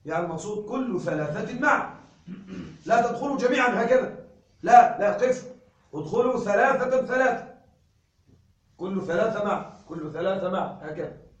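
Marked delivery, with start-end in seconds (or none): 2.9-7.5 loud, sudden no no stop; mock scolding. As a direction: stop the crowd at the door, then repeat. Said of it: "فأقول". (المعلم يوقف الطلاب بحزم مصطنع)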